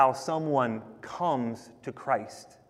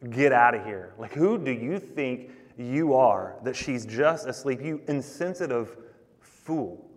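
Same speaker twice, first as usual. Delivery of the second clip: scornful. Retold or imitated. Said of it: "It is like a scornful laugh".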